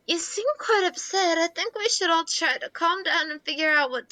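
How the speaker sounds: a lightly voiced, prim and polite Jane; smooth things over like a calm host. Plays polite calm character Jane.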